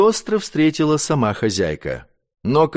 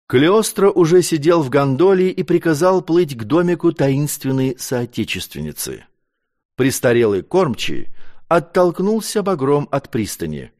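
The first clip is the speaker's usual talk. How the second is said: ordinary delivery, nothing marked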